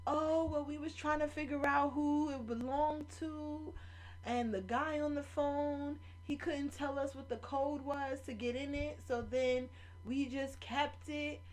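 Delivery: high mock whiny excuse voice; mocking the thief. Mimicking the woman making excuses for keeping the phone, high and mocking. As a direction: play the thief as whiny and evasive.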